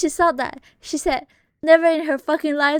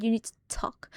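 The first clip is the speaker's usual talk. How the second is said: whisper; 7 dB quieter than usual. Retold or imitated. Strange lady's warning retold.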